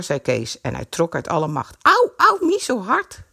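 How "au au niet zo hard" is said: high, loud cries of pain; moaning in pain. A narrator's reading. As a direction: wince as the strap pinches. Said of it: "kreunde Greet".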